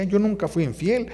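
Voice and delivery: wife insisting to husband she was faithful; pleading wife. Retold or imitated. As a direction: swear you were faithful. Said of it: "cuando decía".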